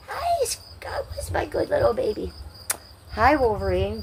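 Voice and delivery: high whispered cooing to a pet. Real, not acted. Whispering baby talk to pet.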